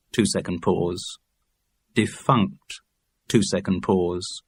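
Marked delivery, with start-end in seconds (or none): 1.9-2.8 neutral dictionary recording read; uninflected headword into a microphone; absolutely straight. A narrator's reading. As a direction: say the word with no vocal colouring. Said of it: "have to be spoken absolutely straight".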